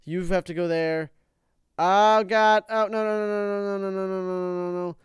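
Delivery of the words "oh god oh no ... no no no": high, rapid-fire string of no's; helpless panicked stammer of no's; alarmed dismay. Real, not acted. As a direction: start loud, then keep repeating it as it fades. About to lose in game.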